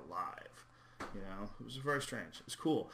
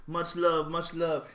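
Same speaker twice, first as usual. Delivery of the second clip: high, loud mock greeting; imitating Steven Seagal; 6 semitones higher, 7 dB louder, slower than usual. Comic mocking Seagal's street talk, high and loud. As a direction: ham up the fake street warmth. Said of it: "He talks black".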